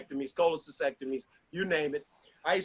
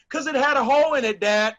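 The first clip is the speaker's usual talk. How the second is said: put-on child answering; 4 semitones higher, 4 dB louder, faster than usual.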